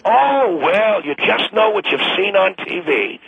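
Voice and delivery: high, scornful "Oh, well" and parroting; mocking echo. Club member parroting the radio host, mocking echo. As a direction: throw the words back at them in mockery. Scornfully echoes the host's words back.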